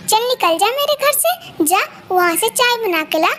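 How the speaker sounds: harsh bossy mother-in-law ordering her out; mild mock rage of a cruel mother-in-law; scolding mother-in-law. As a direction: bark orders at the new bride.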